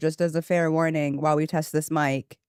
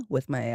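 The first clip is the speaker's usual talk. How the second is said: fake scream gasp; 3 semitones lower, 5 dB quieter than usual. Shown as a demonstration. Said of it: "I'm not actually screaming. I'm going".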